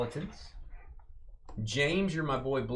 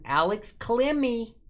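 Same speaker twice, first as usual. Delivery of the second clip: higher, slow, hammed-up name announcement; announcer name call; 9 semitones higher than usual. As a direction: belt out the name like a ballpark announcer. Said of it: "I would say it just like that if I ever met him".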